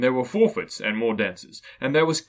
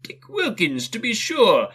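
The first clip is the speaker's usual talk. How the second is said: fond surprise; 9 semitones higher, slower than usual. Acted. Scrooge remembers fondly.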